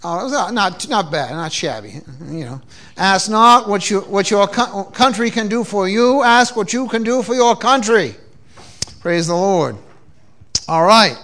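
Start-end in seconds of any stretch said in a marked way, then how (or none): 3.0-8.2 Kennedy-style Boston accent; Boston-accented presidential impression. Shown as a demonstration. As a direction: deliver the famous quote in a Boston accent. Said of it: "I don't get to use my Boston accent very often".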